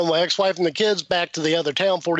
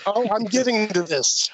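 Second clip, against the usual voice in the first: insisting; 4 semitones higher than usual. Real, not acted. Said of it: "Calm down".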